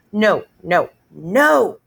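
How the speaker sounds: put-on a little kid yelling no; hollering. Fudge hollering at his mother in the shoe store, loud. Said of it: "he hollered".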